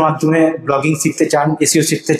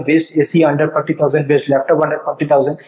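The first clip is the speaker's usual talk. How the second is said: slow dictation; much slower than usual. Shown as a demonstration. Reading example search queries.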